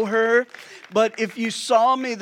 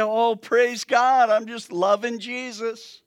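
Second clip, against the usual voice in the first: sarcastic praise; 3 semitones higher than usual. Acted. Pastor mocking his own reaction to God's answer, sarcastic. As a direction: fake delight at bad news.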